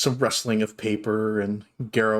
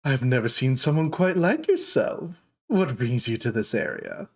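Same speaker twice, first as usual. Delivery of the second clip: dark elf shopkeeper. Acted. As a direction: coo at unexpected guests. The speaker's voice continues.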